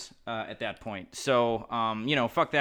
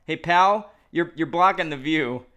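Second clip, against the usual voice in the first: mock yell at a stranger, higher; calling out hey pal with raised pitch; retold yell; 4 semitones higher, 3 dB louder, slower than usual. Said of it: "so you yelled".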